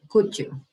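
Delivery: could you run together as "couldja"; blended could you. Shown as a demonstration. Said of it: "we use could you".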